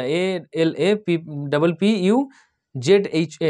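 very slow, halting spelling; slow dictation with gaps between letters. Shown as a demonstration. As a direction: pick through the name letter by letter. Spells out a hard place name.

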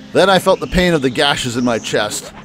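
low, even reading of the game text; story narration. A narrator's reading. Streamer reading the visual novel's narration aloud, low and steady.

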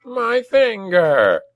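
high, slow goblin wail; outraged, agonised goblin cry; pained yell. A narrator's reading. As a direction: yell it high and drawn out over a lost finger. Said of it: "he yelled".

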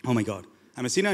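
low, subdued mock-pious moan; heavy, solemn "oh my God". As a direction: imitate a gloomy, guilt-laden worshipper. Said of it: "do you go up solemnly like".

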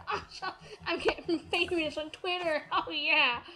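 giddy and laughing through it; laughing delight. Retold or imitated. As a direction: laugh with excitement. Laughing at getting famous online.

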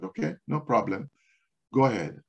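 low, soft, composed reply; retold calm. Hospital greeter yielding to a reluctant visitor, calmly. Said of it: "able to calm myself".

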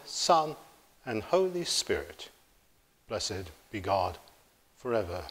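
solemn, measured prayer voice; steady praying voice; liturgical prayer. Acted. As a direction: lead the thanksgiving reverently. Leads the thanksgiving prayer.

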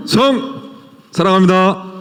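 korean military style. Acted. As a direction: snap out a soldier's greeting. Actor salutes in soldier character.

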